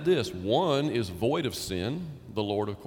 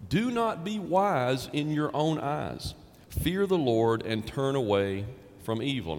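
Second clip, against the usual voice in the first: scripture reading; slower than usual. Acted. Preacher reads the Proverbs passage.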